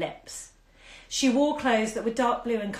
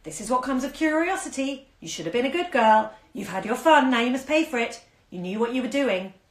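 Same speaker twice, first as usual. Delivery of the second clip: higher, louder scolding moralizer; sanctimonious lecture; imagined scolding voices; 5 semitones higher, 6 dB louder than usual. A narrator's reading. Imagined voices scold Olive for her fall, higher and louder. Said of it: "she could imagine the answering voices".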